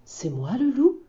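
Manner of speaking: rising, puzzled wolf question; genuinely baffled about himself; astonished. Acted. Loup asks the bears, mildly astonished. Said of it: "demande Loup étonné".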